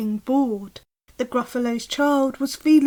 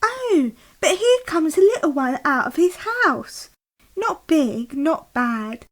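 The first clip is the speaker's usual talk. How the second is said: lightly voiced narrator excitement; 5 semitones higher, 4 dB louder than usual. Mouse appears.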